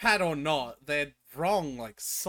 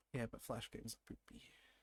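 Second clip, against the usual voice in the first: barely audible, very quiet, indistinct mumble; 4 semitones lower, 17 dB quieter than usual. Repeating a point on a Discord call, mumbling. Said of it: "You're mumbling enough that it's not picking up".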